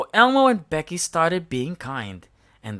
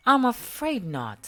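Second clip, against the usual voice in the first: Bella voice; 8 semitones higher than usual. A narrator's reading. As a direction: urge the others on. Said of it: "said Bella".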